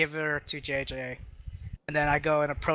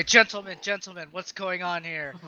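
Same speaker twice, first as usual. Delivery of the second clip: calm entrance; 3 semitones higher than usual. Acted. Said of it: "I say".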